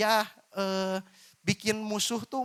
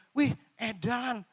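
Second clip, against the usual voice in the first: mock crude slang; 5 semitones higher, much slower than usual. Shown as a demonstration. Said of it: "Ini contoh ya".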